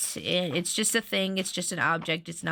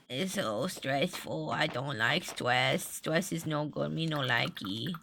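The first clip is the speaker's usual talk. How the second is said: whiny pout; 4 semitones lower, 5 dB quieter, slower than usual. Real, not acted. Venting about package stress.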